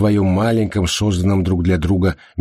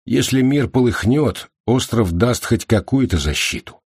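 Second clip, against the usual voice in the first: thoughtfully; 6 semitones higher than usual. Acted. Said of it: "задумчиво ответил мужчина".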